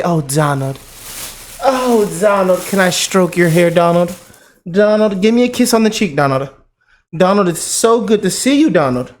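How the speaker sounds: a hint of a gushing, adoring woman; mock fawning hosts. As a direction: lightly coo the name like a smitten fan. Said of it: "They used to say".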